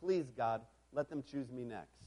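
low, softened plea; breathed prayer. A narrator's reading. Boy silently praying to be chosen next, breathed prayer. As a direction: pray it low, under the breath. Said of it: "I breathed a horribly inappropriate prayer".

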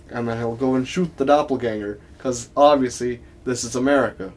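chatting on in a put-on Southern accent. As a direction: stay stuck in Southern character. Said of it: "That was a good Southern accent".

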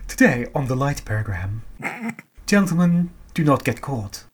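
put-on old BBC announcer RP; clipped received pronunciation announcer; RP accent. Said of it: "I lost my R P accent there. I'm sorry".

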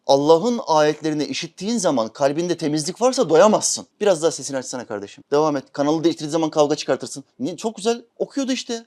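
ordinary talk

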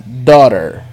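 Daughter. said "dó-rer" with a wide open O and a tapped R. Shown as a demonstration. Teacher models daughter with an open O. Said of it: "Com som de O bem aberto".

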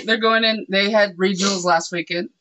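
spitting while talking; spraying spit on a word; spit take. Real, not acted. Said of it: "I just spat everywhere".

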